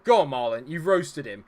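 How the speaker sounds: loud urgent cheering on; excited cheering. Real, not acted. Gamer cheering his striker on through the attack. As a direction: yell him towards goal.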